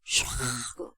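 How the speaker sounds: low, soft rush of breath; roaring breath word. Acted. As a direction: exhale 샤그 like a beast's breath. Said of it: "그 공포는 어마어마한 거예요". (낮게 숨을 내뿜는 샤그)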